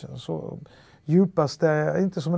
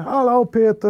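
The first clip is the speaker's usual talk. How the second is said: higher, louder hello in Halland dialect; Halland greeting; 8 semitones higher, 8 dB louder than usual. Retold or imitated. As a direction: call back the greeting in broad Halland Swedish. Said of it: "säger jag". (ett glatt hej på halländska)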